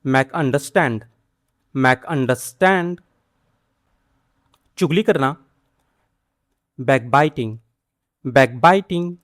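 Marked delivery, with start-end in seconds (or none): 0.0-3.0 "make understand" spoken slowly, stress on "understand"; unhurried "make understand", weight on "understand"; slow model phrase. Shown as a demonstration. Teacher modelling "make understand" slowly for learners. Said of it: "समझाना".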